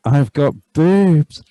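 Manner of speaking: slow, loud gleeful "I've got boobs"; mock excited. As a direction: stretch "boobs" out with loud glee. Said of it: "repeated takes of same line".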